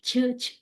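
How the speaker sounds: "چھ" as an airy puff; short voiceless "چھ" puffs; wrong "chh" sound. Shown as a demonstration. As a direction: show the stray "چھ" release. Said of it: "یہ sound نہیں آنی چاہیے".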